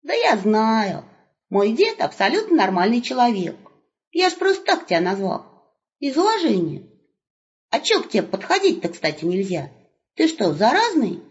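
put-on high, bright calling out to the old man; young wolf hailing grandpa; cheerful young wolf. Wolf chatting.

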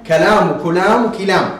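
كلام said three times, first with a, then i, then u on the k; three vowelings. Shown as a demonstration. Teacher showing three readings of one word. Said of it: "الكلمة التي تنطق بثلاث حركات".

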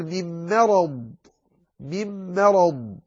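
thin M in مرض before heavy ر and ض; light meem. Shown as a demonstration. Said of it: "من تفخيم الميم".

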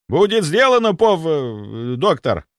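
loud, high, eager military report; zealous soldier. Acted. Security chief vowing loyalty, loud and eager. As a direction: overeager servant.

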